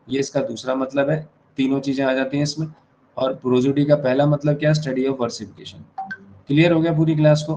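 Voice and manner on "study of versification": slow dictation. Shown as a demonstration. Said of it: "note कर लेंगे पूरे बच्चे।".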